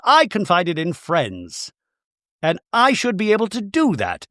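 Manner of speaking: put-on high voice, defending herself; mock defensive wife. Voicing Bronwyn defending herself.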